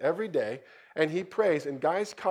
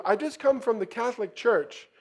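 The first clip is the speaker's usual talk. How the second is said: raised voice; 7 semitones higher, 8 dB louder than usual. Retold or imitated. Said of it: "The guy on the motorcycle says".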